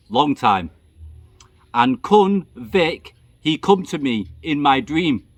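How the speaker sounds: telling the night manager a ghost tale in calm broken English; calm melodious broken English. Retold or imitated. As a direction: lull him like a prayer in pidgin English. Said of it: "in a very calm, melodious voice".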